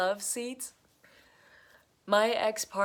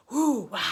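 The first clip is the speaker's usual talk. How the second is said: whoosh of fire; 4 semitones higher, 7 dB louder than usual. Retold or imitated. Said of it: "the fire of the emotions can just go".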